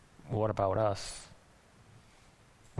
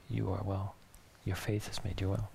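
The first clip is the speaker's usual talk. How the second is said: gentle, softer reassurance; tender; 4 semitones lower, 5 dB quieter than usual. Retold or imitated. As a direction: say it softly, like a comfort. Jesus looks at her and says.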